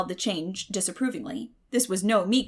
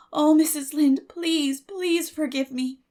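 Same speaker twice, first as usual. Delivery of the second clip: pleading; 6 semitones higher, 5 dB louder, slower than usual. Acted. Anne begs forgiveness.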